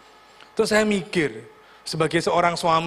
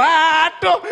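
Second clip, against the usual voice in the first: loud, high, drawn-out wail; comic dismayed cry; 9 semitones higher, 6 dB louder than usual. Acted. Preacher exasperated by the off-key worship leader, comic loud cry. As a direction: cry out high in mock dismay, on the edge of laughter. Exclaims at hopelessly off-key singer.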